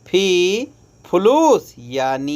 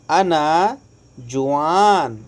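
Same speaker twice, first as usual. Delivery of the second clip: slow teaching demo; slower than usual. Shown as a demonstration. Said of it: "जुआन यानी".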